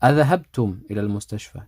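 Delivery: أذهبتم fronted and said fast; teacher demo stressing أذهبتم. Shown as a demonstration. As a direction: rush through with أذهبتم leading. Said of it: "I give emphasis to this".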